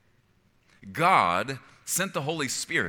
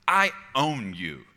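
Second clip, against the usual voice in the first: slow, louder possessive claim; bad owner; 4 dB louder, slower than usual. Preacher voicing a bad owner to the congregation, domineering. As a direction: lord it over them as a bad owner. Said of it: "A bad owner talks like this".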